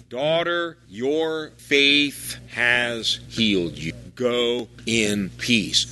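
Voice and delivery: slow, gentle blessing; tender blessing. Retold or imitated. Jesus blessing the healed woman, slow and gentle. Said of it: "you getting used to this now?".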